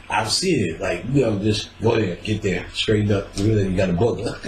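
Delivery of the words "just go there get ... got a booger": usual speaking voice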